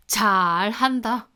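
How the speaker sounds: slow sarcastic jab. Retold or imitated. Father's sarcasm.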